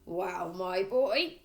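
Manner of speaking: slow, booming, self-satisfied dad; a pompous car dealer showing off; loud boastful father. A narrator's reading. Father boasting to his son, booming and pleased. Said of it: "addressed his son in a loud voice".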